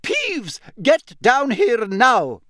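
loud, high, slow furious command; stern professor losing patience; barked order. Acted. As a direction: bark each word at the troublemaker. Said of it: "barked Professor McGonagall".

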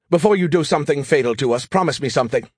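mildly pleading request. Acted. AI asking Joe for a promise, pleading. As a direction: appeal earnestly for a promise. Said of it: "Skippy pleaded".

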